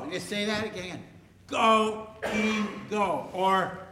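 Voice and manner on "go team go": higher-pitched, spaced-out chant; demonstrated team cheer. Shown as a demonstration. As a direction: lead a mild cheer word by word. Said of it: "then you yell out like".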